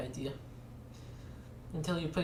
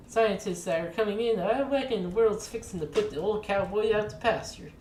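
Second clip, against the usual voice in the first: higher folksy cowboy voice, easygoing; 3 semitones higher than usual. Acted. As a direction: play a friendly old-timer welcoming a stranger. Cowboy laments dying breed.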